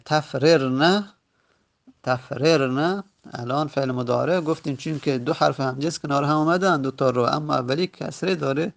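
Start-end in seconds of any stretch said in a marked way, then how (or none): 0.0-3.0 slow demonstration. Shown as a demonstration. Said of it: "ادغام ممتنعه".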